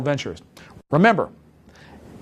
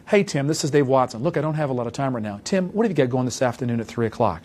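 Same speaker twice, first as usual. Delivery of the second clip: hurried phone call. Shown as a demonstration. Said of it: "Here's what it's gonna sound like".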